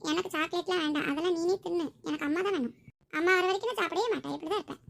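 put-on sulky child. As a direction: whine it like a stubborn small child. Child refusing chocolate bribe.

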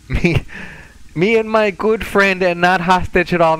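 thick mock-Russian, eagerly taking the job; hammed-up Russian mercenary accepting a mission; fake Russian accent. Accepting the case with his good friend, fake Russian accent. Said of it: "terrible fake Russian accent a little thick".

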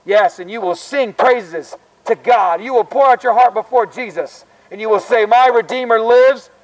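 open-air gospel preaching; street preaching. Acted. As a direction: preach it out to the passing students. Campus street preacher sermon.

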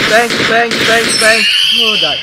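loud, high startled yells; startled shouting. Real, not acted. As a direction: blurt it out after a scare. Yelling after a jump scare.

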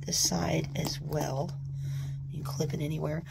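soft voiceless whisper; ASMR whisper. Real, not acted. Tearing the plastic, an ASMR whisper. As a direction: whisper close, ASMR style.

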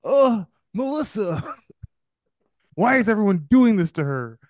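high, hammed-up lament; anguished sympathy. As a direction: wail in mock distress for her. Retells anguished sympathy for the character.

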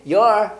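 "You're" as one syllable-like "yuh-r"; "You're" with the vowel reduced to "yuh"; contracted linking. Shown as a demonstration. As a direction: squeeze "you are" into "You're". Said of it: "you are라고 하면 어떻게?".

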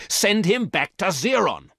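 high, loud furious command; angry shout. A narrator's reading. Woman yelling at the robot to send him back, loud and high. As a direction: bark the order at full force. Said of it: "said the woman angrily".

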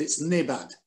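a touch of mock Scots accent; fake Scottish accent. Guest jokingly defending his impression, in fake Scottish accent. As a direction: slip lightly into a put-on Scottish accent. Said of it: "my fake Scottish accent".

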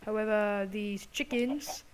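amateur imitation of a British accent; bad British accent. Gamer narrating wood collecting to viewers, mock British accent. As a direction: put on an unconvincing British accent. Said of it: "really, really bad accent".

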